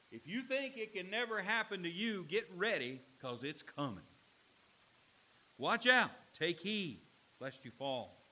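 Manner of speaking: loud, urgent pulpit warning; sudden shout of warning from the pulpit; fiery preaching. Real, not acted. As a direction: hammer the warning home to the congregation. Warning at full force.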